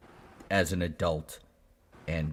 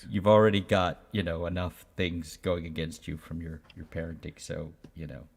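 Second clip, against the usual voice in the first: parent voice. Retold or imitated. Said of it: "the parenting brain kicks in".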